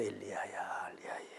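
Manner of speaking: whispered gentle calling of a name; hushed voice of God calling; soft call. A narrator's reading. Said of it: "부드럽게 얘기해요".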